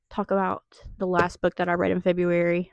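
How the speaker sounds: too loud announcement; talking too loud late at night. Real, not acted. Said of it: "Sorry, that was loud".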